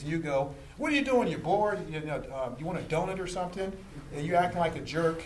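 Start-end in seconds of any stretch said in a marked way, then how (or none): 0.8-3.7 mocking citizen. Rude citizen mocks the officer.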